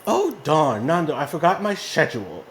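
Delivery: lightly attempted UK accent; a rough stab at British English; butchered English accent. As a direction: imitate a British executive, badly. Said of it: "I'm gonna butcher her accent".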